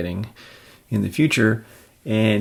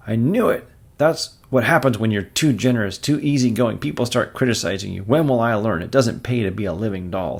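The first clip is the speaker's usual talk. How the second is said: self-pitying editor; 3 semitones higher, 5 dB louder than usual. Acted. Jonah whining about being too generous. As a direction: whine like a put-upon boss.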